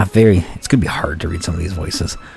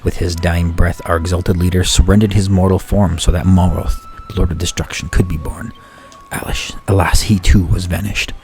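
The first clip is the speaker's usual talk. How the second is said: solemn preaching of the fallen lord; cult sermon. Acted. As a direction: proclaim the dark prophecy.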